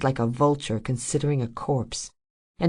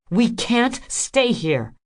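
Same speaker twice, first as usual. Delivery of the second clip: high, slow insistence; insistent; 9 semitones higher, 3 dB louder, slower than usual. A narrator's reading. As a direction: lay down each word. Rose insists.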